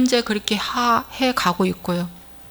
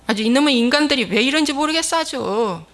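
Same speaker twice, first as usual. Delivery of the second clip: exasperated rant; 3 semitones higher than usual. Acted. Preacher exasperated at people.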